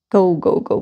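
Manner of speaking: usual speaking voice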